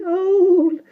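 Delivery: very high, mocking little-old-woman voice; scoffing old woman. A narrator's reading. Old shopkeeper scoffing at Jane, high and mocking. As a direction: toss the word back with scorn. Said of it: "she said".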